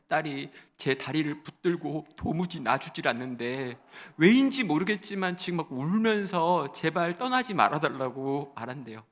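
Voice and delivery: ordinary talk, nothing marked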